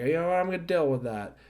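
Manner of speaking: defiant quote. Retold or imitated. Pierce voiced answering Drew.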